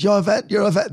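badly put-on Austrian accent. Retelling event hosts in Vienna, mock Austrian accent. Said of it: "That's not an Austrian accent".

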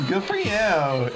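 put-on high, drawn-out Staten Island accent; imitated Staten Island accent. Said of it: "Her accent?".

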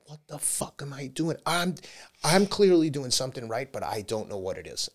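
a touch of incredulous exasperation; baffled disbelief. Retold or imitated. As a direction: ask yourself in mock disbelief. Baffled self-quote to wife.

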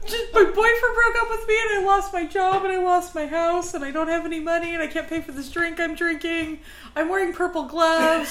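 put-on whiny, laughing sad-girl voice; mock sad lament. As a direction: wail out your troubles through laughter. Voicing sad Penny Pretty.

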